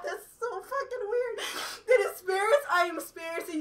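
a touch of laughing through tears; half sob, half laugh; crying but laughing. Real, not acted. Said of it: "I'm kinda crying but laughing".

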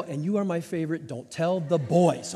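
secret bedtime whisper. Retold or imitated. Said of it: "look at her and go".

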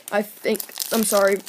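talking through hiccups; hiccuping between words. Real, not acted. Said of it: "I'm hiccuping a lot".

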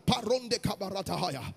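chanted babble starting to open up. Retold or imitated. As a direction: let the tongues rise out of a murmur. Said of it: "Then it became louder".

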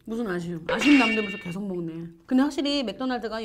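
talking between chewing bites; muffled words around burger mouthful; mouth full, chewing. Real, not acted. Seen 0: Woman bit burger at -4, cheeks full, chewing through labelled words.

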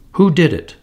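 mildly angry elf mother; a hint of anger, understated. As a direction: demand it crossly. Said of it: "said the voice angrily".

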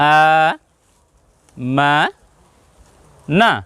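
আ stretched, মা and না short; long then short. Shown as a demonstration. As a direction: model আ, মা, না for repeating. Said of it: "একটা করে উচ্চারণ করুন আমার সঙ্গে". (আ লম্বা, মা না ছোট করে)

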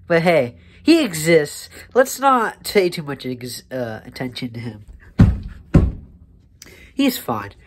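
slurred tipsy rambling; getting drunker. Pretend. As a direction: talk like you've had a few drinks. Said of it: "I'm so drunk right now".

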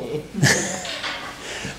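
soft, breathy laugh; short laugh. Real, not acted. Teacher amused at her own understatement, short soft laugh. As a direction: let out a short quiet laugh.

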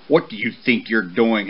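firm demand from a father; understated stern challenge; strong, demanding voice. Acted. Father horse confronting his son, firm and demanding. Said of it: "his papa demanded in a strong voice".

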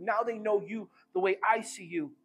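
tender Jesus to Father. Acted. Jesus to the Father, soft and awed. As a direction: speak it with quiet wonder. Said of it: "he's like".

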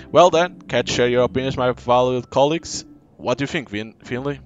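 pompous doctor. Acted. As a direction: boom it out like a vain head doctor. Hammy doctor addressing colleagues.

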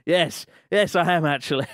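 hammed-up nervous reply. Lost traveller answering the strange wizard, acted nervous. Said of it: "I nervously said".

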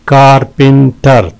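"कारपेंटर" in three beats; syllable breakdown. Shown as a demonstration. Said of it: "तीन है". ("कारपेंटर" तीन हिस्सों में)

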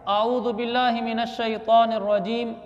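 measured Arabic recitation; teaching recitation. Shown as a demonstration. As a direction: recite it carefully for learners. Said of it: "ये मैं अल्फाज आपको पढ़ के सुनाता हूँ". (सिखाने वाली अरबी तिलावत)

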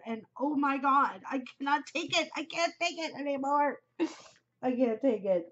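high, worked-up fan outburst; rising into high-pitched exasperation; overwrought. Real, not acted. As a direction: wail it playfully, overwhelmed by suspense. Overwrought over a cliffhanger finale.

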